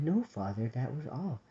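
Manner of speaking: soft, sighed answer; sighing. A narrator's reading. Young sister answering the abbot's question, soft sighing. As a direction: let it sink away softly on a sigh. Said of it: "Amel sighed".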